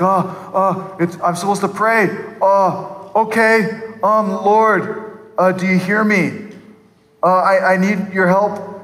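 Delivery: halting, mildly flustered prayer; nervous new believer. Acted. New believer praying for the first time ever, mildly nervous. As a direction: play a hesitant beginner feeling for the words. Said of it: "They're scared. They don't know how to pray".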